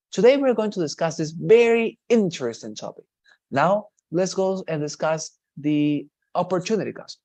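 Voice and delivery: lively, rising, varied tune; expressive lecturer's delivery, pitch up; varied intonation. Shown as a demonstration. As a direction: sell it like an engaging presenter. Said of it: "varied intonation".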